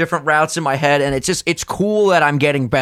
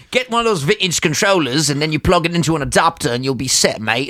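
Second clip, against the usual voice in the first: bad British accent. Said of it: "I can't do a fucking British accent".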